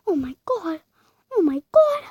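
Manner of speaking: high, loud shocked shriek; loud shocked yelp; shocked cry. Real, not acted. Shocked by door slam.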